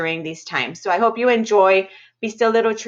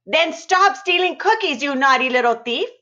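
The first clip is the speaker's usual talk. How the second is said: teasing grandmother; 6 semitones higher than usual. Acted. Grandmother scolding the boy.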